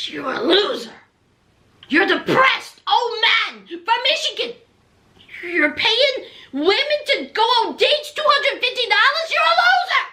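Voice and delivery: rising into a high scornful jab; imitating an angry wife calling him a loser; mock insult. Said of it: "She said".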